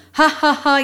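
measured "ha ha ha" of a monster; ghostly laugh. A narrator's reading. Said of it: "பயங்கரமான பேய்க்குரலில் சிரித்துக்கொண்டு".

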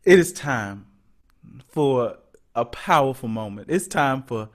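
slow, low, reverent show closing; mock-solemn church intro. Host ushers in the powerful moment, mock-solemn. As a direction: intone it like a solemn preacher, pausing between phrases.

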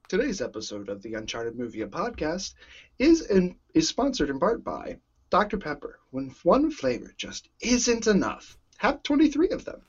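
a hint of an announcer reading a sponsor spot; mock ad read. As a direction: read it like a light radio ad. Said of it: "I, I got this".

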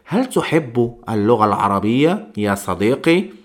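mock question. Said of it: "Imaginaros que os pregunte".

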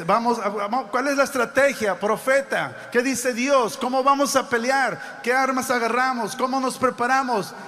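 mock urgent shout of a king; urgent king's call. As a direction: demand answers from the prophet like a king before battle. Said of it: "el rey está diciendo".

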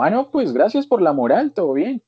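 high mock-grateful sarcasm; sarcastic thanks. Teen answering his aunt's blunt comment on his arm, high sarcastic thanks. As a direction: thank her sweetly while stung.

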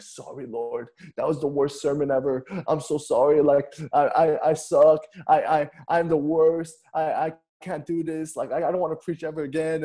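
mock-miserable apology, pitch lifting as it goes; hammed-up, halting confession to God; retold repenting. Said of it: "repenting to the Lord".

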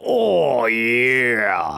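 long, drawn-out mock swoon; swooning ladies. Ladies admiring a shirtless wrestler, drawn-out mock swoon. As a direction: ooze admiration in one sliding moan. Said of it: "all the ladies go".

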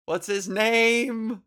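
high, slow exasperated plea; frustrated high cry. Real, not acted. Host straining to remember a director's name, frustrated. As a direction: stretch it out in frustration.

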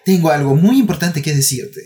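put-on slow, sing-song voice for children; giggly sinister sing-song. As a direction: sweetly break the bad news, slowly. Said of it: "nosotros le podemos decir".

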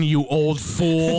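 put-on old couple teasing. Voicing an aging Dak to Jerry.

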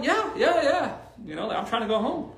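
reluctant brush-off. Retold or imitated. Narrator refuses friend's beach dare.

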